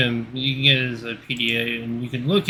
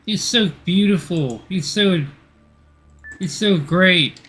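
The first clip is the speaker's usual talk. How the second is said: gushing; 5 semitones higher than usual. Acted. Gushing over game character.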